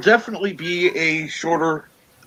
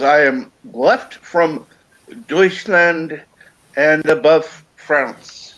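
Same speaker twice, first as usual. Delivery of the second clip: slow mock quote; 3 semitones higher, much slower than usual. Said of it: "He says".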